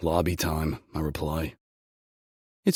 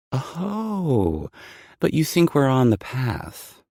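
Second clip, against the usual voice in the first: higher, louder playful tease; teasing; 10 semitones higher, 7 dB louder, slower than usual. Acted. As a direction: tease him back, lightly. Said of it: "she teases".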